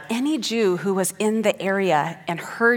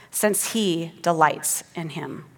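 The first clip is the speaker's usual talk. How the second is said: scripture reading. Acted. Reads the psalm aloud.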